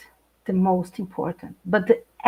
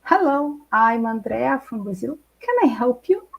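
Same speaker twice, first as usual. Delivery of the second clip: cheerful self quote. Retold or imitated. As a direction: greet the neighbor eagerly, pitch rising. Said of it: "I went to my neighbor".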